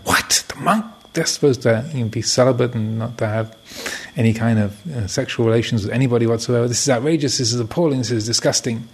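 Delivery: mock-outraged father, pitch leaping on the monk; a lightly acted stern dad spluttering in indignation. Stern father hearing the monk did it, outraged.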